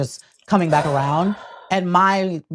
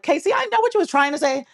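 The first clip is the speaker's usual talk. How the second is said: imitating him; 12 semitones higher than usual. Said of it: "it'd be like".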